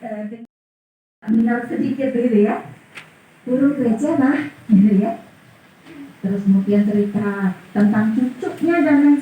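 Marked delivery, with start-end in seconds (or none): 3.4-4.4 lightly voiced contented child's reply; happy child answering. Child answers father's first question about a bird, lightly happy. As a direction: answer Dad easily, only lightly acted. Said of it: "anaknya dengan senang".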